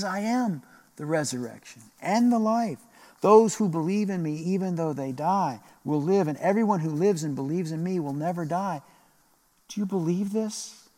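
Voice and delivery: proclaiming Jesus. Acted. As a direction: speak it as a bold promise.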